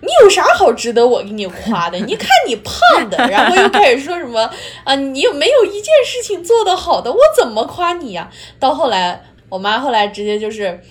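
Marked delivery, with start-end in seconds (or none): 0.0-8.3 imitating mom. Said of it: "然后我妈就会说".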